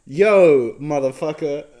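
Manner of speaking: loud, slow hammed-up Brooklyn street voice, mocking the review; mock Brooklyn accent. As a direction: punch out the Brooklyn slang like a parody. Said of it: "You feel uncomfortable listening to me do a version of it".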